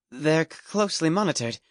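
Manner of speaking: nervous stammer. A narrator's reading.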